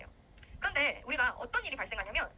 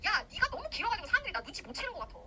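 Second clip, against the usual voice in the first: mock annoyed. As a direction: grumble like a put-upon, jealous rival. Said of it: "하면서 얘가 막 화내".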